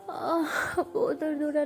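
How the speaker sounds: tearful groan of pain, voice breaking; crying in pain. Acted. Aana telling Anu it hurts so much, crying. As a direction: whimper out the hurt.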